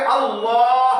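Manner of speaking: अल्लाह with a heavy, round-mouthed L; full-mouth Allah. Shown as a demonstration. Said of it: "full mouth मोटा करके".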